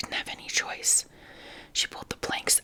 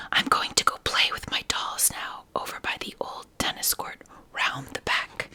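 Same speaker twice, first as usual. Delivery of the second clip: slightly raised whisper; a little louder; 4 dB louder than usual. A narrator's reading. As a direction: lift the whisper a bit louder. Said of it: "she said a little louder".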